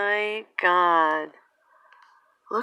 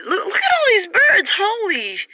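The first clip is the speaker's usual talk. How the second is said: high, loud cries of alarm at the birds; alarmed exclaiming; 10 semitones higher, 6 dB louder than usual. Real, not acted. Filming the flock overhead, shouts in high-pitched alarm. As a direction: shout it out, stunned by the swarm.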